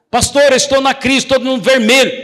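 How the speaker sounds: a hint of a distressed member; worried church member. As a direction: play the anxious believer.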